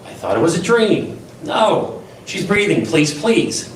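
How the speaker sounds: a touch of frantic begging on the phone; imitating a panicked caller. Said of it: "he's saying things like".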